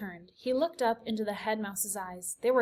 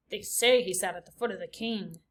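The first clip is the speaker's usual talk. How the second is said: lightly voiced other mouse; a hint of a different mouse; gossiping mouse; 2 semitones lower than usual. A narrator's reading.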